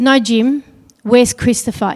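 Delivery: desperate demand. Retold or imitated. Mother demanding answers from supervisor.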